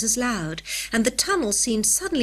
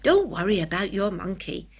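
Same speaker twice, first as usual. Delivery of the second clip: comforting. A narrator's reading. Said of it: "said Jeremiah comfortingly".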